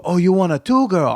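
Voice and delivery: lightly mimicked broken-English Asian accent; imitating Asian accent. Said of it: "I'm not trying to do racist Asian accent".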